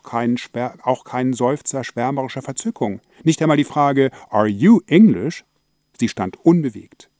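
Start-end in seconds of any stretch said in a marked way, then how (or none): 4.3-5.4 posh English question. Acted. Englishman abroad asks clerk.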